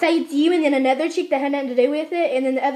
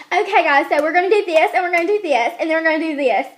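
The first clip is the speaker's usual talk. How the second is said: raised, louder mock teacher voice; escalating teacher; 2 semitones higher, 4 dB louder than usual. Teacher repeating instructions to the class, mock escalating voice. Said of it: "And then it'll end up".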